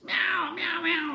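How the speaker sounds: high, loud cat meowing; cat meows. Acted. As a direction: meow like a cat. Cats meowing in story.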